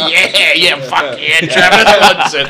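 mock eager agreement. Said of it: "Chaz turned to me and went".

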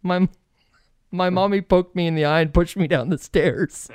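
a hint of a small child tattling innocently; a touch of a little kid blaming mommy; little daughter. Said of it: "Izzy says to her, she goes".

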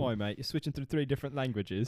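put-on blokey British accent. Teasing co-host's shifting accent, British bloke accent. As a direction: scold a mate in mock British. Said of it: "Let's talk in British accents".

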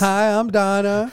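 lightly voiced woman, slowly; Donna voice. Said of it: "I'm gonna start practicing now".

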